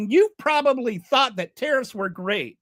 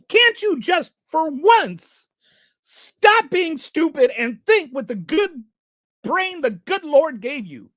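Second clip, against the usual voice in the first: raised, louder, pleading with exasperation; exasperated outburst; 3 semitones higher, 4 dB louder, slower than usual. Real, not acted. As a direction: demand it, fed up and loud. Exasperated rant at MAGA commenters.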